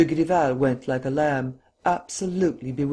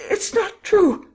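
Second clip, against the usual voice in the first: "It's not true!" much higher and louder, falling hard on "true"; scream; 6 dB louder, slower than usual. A narrator's reading. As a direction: scream "true" out high and loud, dropping at the end. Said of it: "she screamed".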